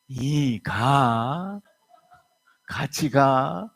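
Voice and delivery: extremely slow, stretched Chungcheong drawl; slow Chungcheong husband. Acted. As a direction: Chungcheong husband barely moving to follow. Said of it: "이 남편이".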